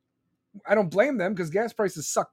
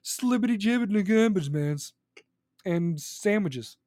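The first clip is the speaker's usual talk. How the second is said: mocking Biden; 4 semitones higher than usual. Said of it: "He's like".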